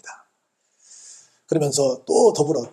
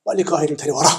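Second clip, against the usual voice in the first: loud retold order; acted, forceful summons; firm command; 7 dB louder than usual. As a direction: order it done at once. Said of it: "데려오라고 명을 하십니다".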